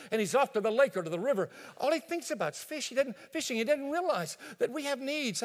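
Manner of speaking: complaining wife. Acted. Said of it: "Mary would immediately volunteer".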